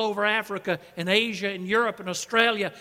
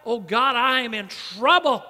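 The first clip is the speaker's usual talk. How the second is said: louder, acted plea to God; mock distress cry; 2 semitones higher, 5 dB louder than usual. Preacher voicing Jonah praying from the sea, crying out. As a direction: cry out like someone in trouble, mildly dramatised.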